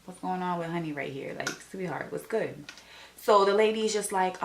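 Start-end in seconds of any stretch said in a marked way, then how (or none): 0.1-2.6 muttered side-eye. Retold or imitated. Onlooker wondering about the unprepared girl, quiet and incredulous. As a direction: say it under your breath, judging.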